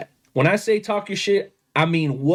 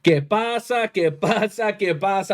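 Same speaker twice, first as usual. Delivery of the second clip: lucha libre announcer; 3 semitones higher than usual. Pretend. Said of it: "let me hit that S A P button".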